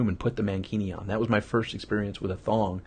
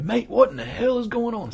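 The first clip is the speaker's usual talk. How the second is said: much higher, louder bad Australian accent; terrible Australian accent; 13 semitones higher, 4 dB louder than usual. Glenn catches him undressing, in a terrible Australian accent. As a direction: ham up a shocked Australian mate. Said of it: "That was a terrible, uh, Australian, ... whatever, but impression".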